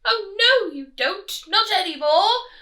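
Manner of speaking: bully them like a greedy rat; big villainous rat; highway rat voice. Acted.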